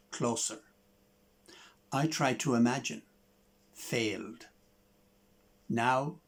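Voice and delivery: measured, reflective poetry reading; poem reading. Acted. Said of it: "This is a poem of mine".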